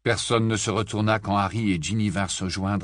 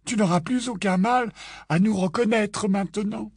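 put-on raised, joking young man's voice; George's voice; 12 semitones higher than usual. George jokes with his mother in a raised, playful voice. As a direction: tease your mother lightly, pitched up.

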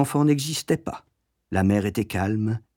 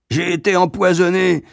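bredouillement; 7 semitones higher, 4 dB louder than usual. A narrator's reading. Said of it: "bredouilla le viril amoureux".

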